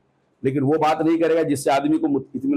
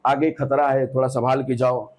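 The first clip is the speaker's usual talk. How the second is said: gentle warning; 3 semitones lower than usual. Shown as a demonstration. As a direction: ease him away from the danger gently. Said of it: "बचो, प्यार से बोलते".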